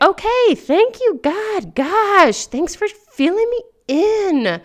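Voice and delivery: high, mock-grateful sarcasm; sarcastic thanks. Thanking God for the late news, sarcastic and high. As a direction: roll your eyes and thank God sarcastically. Sarcastic reply to God's answer.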